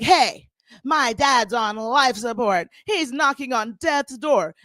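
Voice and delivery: slow, hammed-up crying plea; mock tearful plea. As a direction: fake a sob as you beg for sympathy. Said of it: "So then Lisa's like".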